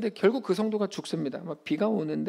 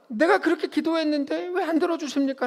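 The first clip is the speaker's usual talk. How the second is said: high-pitched, mildly acted complaint; protesting to God; 9 semitones higher than usual. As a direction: plead your case in a raised pitch. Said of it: "라고 따지죠".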